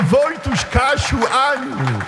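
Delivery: high-pitched, drawn-out calling of names; preacher voicing God's loving call; God calling tenderly. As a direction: call each beloved child by name, voice lifted. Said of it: "woła do ciebie".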